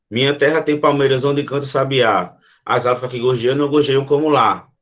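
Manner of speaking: poem lines recited with a light, regular beat; lightly measured demonstration of poetic metre; rhythmic verse recitation. Shown as a demonstration. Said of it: "um poema que tem um ritmo".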